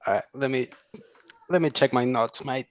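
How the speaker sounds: mock Australian accent, leaning on mate; playing an Aussie bloke with a put-on Australian accent. Guest doing a jokey Australian accent for the question. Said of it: "I had to do it like this with accent".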